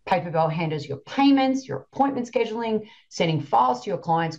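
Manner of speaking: upbeat podcast ad read with lively pitch lifts; sponsor read. Acted. Host plugs a sponsor to coaching listeners, upbeat ad read. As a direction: pitch the sponsor's tool to listeners, brisk and clear.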